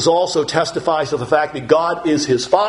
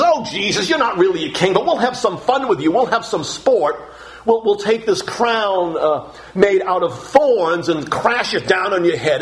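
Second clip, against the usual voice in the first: mocking soldiers; 3 semitones higher than usual. Soldiers taunting Jesus in a mocking, jeering voice. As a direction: jeer at a fake king. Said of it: "to make fun of Jesus".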